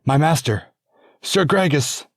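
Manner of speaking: squire's mournful wail over his master's body. Acted. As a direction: wail his name in grief. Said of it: "a mournful wail went up from the squire".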